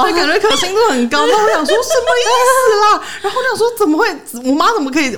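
high, loud laugh through the words; can't stop laughing. Real, not acted. Still laughing at the story.

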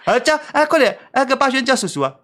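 a nephew mimicking his uncle between laughs; laughing uncle impression. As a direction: giggle while playing the grumpy uncle. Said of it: "阿伯就一个那个脸就".

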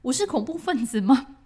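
high, loud, rising panic; terrified she's taken for a terrorist; panicked inner thoughts. Retold or imitated. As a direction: spiral into alarmed questions. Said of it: "然后很害怕。".

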